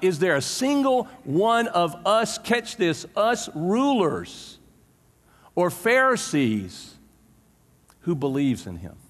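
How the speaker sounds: slow, sneering Pharisee reading, words drawn out; mocking. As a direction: lay the scorn on thick, slowly. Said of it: "Pharisees mocked".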